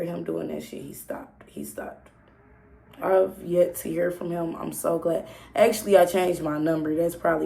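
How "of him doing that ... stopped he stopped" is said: breathy hushed whisper. Real, not acted. Telling followers how it ended, whispered. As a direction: drop to a whisper.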